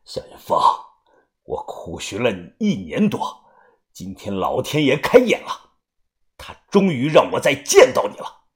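building agitation. Acted. Avenger finally finding the man he hunted, increasingly agitated. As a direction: start hushed and let the feeling swell. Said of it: "他突然有些神色激动".

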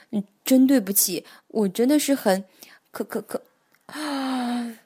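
drowsy, trailing off into a yawn; sleepy, words fading into a yawn. Acted. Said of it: "蹦蹦想说瞌睡，话还没说完，又打了个大哈欠".

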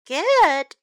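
loud, drawn-out word through a yawn. A narrator's reading. Stella relieved Fred is found, mild yawn. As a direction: stretch it out as if yawning. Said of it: "yawned Stella".

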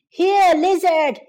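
calling a lost lizard. Acted. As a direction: call across the yard for the lizard. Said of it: "he called out".

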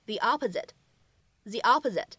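"the opposite" with "the" said as "thee". Shown as a demonstration. Teacher modelling the vowel-initial "the". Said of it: "我们应该读成".

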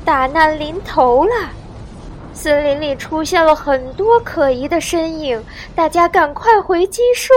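high, loud urgent warning; frantic aunt sounding the alarm; panicked shout. A narrator's reading. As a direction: raise the alarm for everyone. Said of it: "惊慌地大喊".

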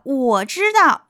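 queen calling out. Acted. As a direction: announce it slowly as the queen. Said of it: "王后喊道".

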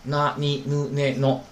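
那、你、ぬ、ね、の with no hum before the n; direct onset. Shown as a demonstration. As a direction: model 那、你、ぬ、ね、の as clean na, ni, nu, ne, no. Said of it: "上来就是什么呀".

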